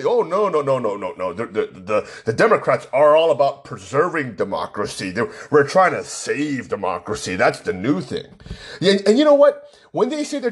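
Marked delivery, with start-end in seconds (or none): 0.0-8.3 lightly voiced dismissive leftist; mock leftist. Mocking leftists who answer him with a dismissive voice. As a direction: brush off the question in a mock voice. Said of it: "you talk to the left, you say".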